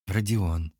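tender. Acted. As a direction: say his name lovingly. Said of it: "нежно произнесла Машенька".

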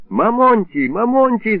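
high, loud wailing of his name; keen over him like a frightened wife; wailing lament. A narrator's reading. Wife wailing over her drunk husband, high and loud. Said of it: "запричитала женщина".

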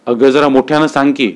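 plain reading voice

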